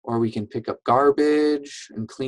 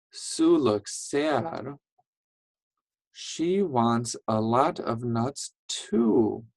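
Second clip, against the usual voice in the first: slow, softer storybook sadness; sad reading; 3 dB quieter, slower than usual. Acted. Teacher reading Sue's sadness to children, slow and soft. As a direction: linger on the words, a touch sad.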